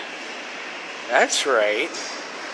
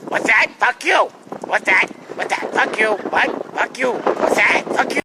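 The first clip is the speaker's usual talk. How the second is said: a raised, snappy mock jerk; lightly hammed-up rude guy; 2 semitones higher than usual. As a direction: toss it off like a belligerent stranger. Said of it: "In that voice, though".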